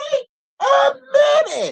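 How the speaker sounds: high, squeaky wait a; shocked squeal. Real, not acted. Recapper shrieking in shock at the gossip. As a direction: jump up in pitch in disbelief.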